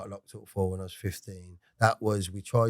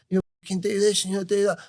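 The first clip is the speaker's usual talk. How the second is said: high, firm mock orders; dad bossing him; 10 semitones higher than usual. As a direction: lay down the law as his dad.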